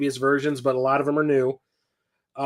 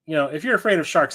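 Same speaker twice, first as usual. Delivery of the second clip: ordinary talk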